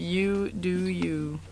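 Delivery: emphatic slogan. Shown as a demonstration. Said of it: "Emphasize that again".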